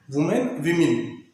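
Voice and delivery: "वुमेन" then "विमेन", first vowel changing from oo to short i; singular-plural pronunciation contrast. Shown as a demonstration. Teacher showing students the plural sound, "वुमेन" against "विमेन", slow contrast. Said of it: "उसको विमेन pronounce करते हैं".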